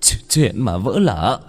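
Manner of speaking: slow, stammering, rising to a desperate beg; trembling plea. Acted. Son begging his mother to save him, trembling voice. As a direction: plead with mother, voice shaking. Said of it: "giọng vẫn còn run".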